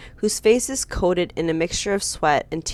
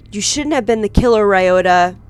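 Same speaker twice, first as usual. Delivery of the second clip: fast, louder accusation; accusing cry; 2 semitones higher, 6 dB louder than usual. Acted. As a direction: throw the name at him. Accusing the killer.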